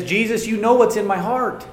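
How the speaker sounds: acted upset, insistent and high; upset Peter. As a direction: pitch jumps up in pleading protest. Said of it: "as Peter gets upset".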